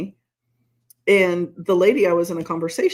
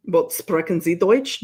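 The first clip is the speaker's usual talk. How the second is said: slower mocking replay of his question; slow sneering echo of the German question; retold question; slower than usual. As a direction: repeat his German with mild mockery.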